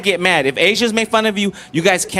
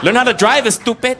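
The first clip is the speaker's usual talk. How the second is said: mock Latino accent; 2 semitones higher than usual. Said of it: "Latinos make fun of Asians".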